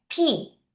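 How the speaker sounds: 피 high, lips pressed then popped; P with lips released. Shown as a demonstration. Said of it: "입술을 붙여서 떼야 돼".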